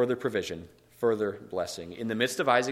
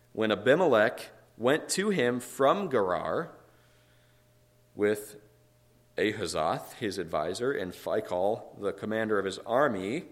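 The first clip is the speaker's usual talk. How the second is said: emphatic, measured reading aloud; scripture reading; slower than usual. A narrator's reading. Preacher reading scripture to the congregation, emphatic and measured. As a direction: read the verse out, weighting key words.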